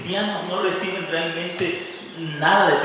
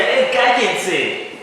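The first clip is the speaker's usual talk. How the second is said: crowd telling them off; 3 semitones higher than usual. Retold or imitated. Crowd hushing the blind men.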